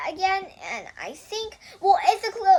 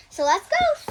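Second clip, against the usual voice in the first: excited; 13 semitones higher, 5 dB louder than usual. Real, not acted. Kid kicking off the reading.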